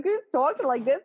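brief mock Jersey voice; Jersey accent. Shown as a demonstration. Accent demo sliding off track, mock Jersey accent. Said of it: "I almost went Jersey".

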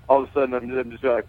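ordinary talk, nothing marked

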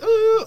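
high mock whimper; demonstrating a standstill cry. Shown as a demonstration. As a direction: imitate someone crying, high-pitched. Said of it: "what type of cry was it?".

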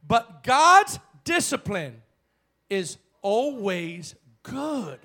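slow emphatic reading. Real, not acted. Preacher reading scripture slowly for emphasis. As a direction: stretch every word out.

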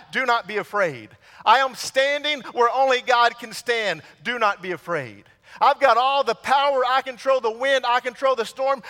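lightly voiced Jesus, proclaiming I am; Jesus speaking. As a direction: bold reassurance to scared disciples. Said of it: "and he says".

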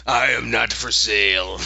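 mild mock yell from the sidelines; Yorick. Voice actor yelling the bear's line from sidelines, mock-declaiming. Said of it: "yelling from the sidelines".

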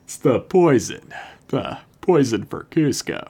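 lightly put-on deadpan Kronk voice; a hint of a deadpan cartoon henchman; Patrick Warburton impression. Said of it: "That's really good".

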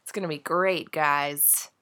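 stuffy voice from a cold. Real, not acted. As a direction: talk through a head cold. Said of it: "if I sound a little funny".

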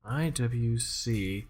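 slow fake Russian accent. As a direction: read it in a put-on Russian accent. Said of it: "I have to stop doing a fake Russian accent".

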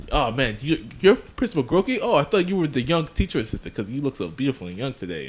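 imitated gushing, pitch jumping up in mock surprise; kiss-ass flattery. Kids buttering up Principal Groki, mock fawning. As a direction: lay on the fake compliments. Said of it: "Everyone's kinda being a kiss ass".

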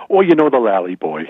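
giggling mock town lady; laughing gossip. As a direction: chuckle through it like a gossiping neighbour.

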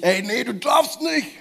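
stern forbidding. Acted. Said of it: "sag deinem Körper nicht".

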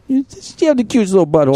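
high cooing praise for the cat. Real, not acted. Host gushing over his cat, cooing pet voice.

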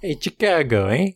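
lightly put-on Chicago accent. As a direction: toss out a mock Chicago greeting. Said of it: "as good a Chicago accent as we're gonna get".

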